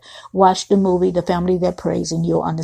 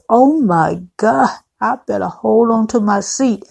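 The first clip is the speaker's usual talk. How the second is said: mock moaning; 3 semitones higher than usual. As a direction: act out a mild swoon during a massage. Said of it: "Karen starts moaning and says".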